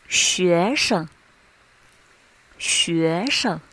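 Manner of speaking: long first syllable, short light second in 学生, 名字, 什么; neutral tone. Shown as a demonstration. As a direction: stretch 学, 名, 什 and lightly tuck in the last syllable. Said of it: "soft syllable will come out light and short".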